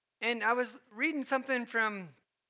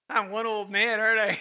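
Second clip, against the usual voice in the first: laughing; 7 dB louder than usual. Real, not acted.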